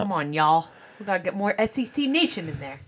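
put-on, pushy Southern accent; aggressive Southern accent. Mock SEC fan rallying the league, aggressive Southern accent. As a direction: lay the Southern accent on too thick. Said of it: "You're being too aggressive in your Southern accent".

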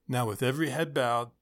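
hushed altar call. Acted. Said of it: "the random youth pastor voice".

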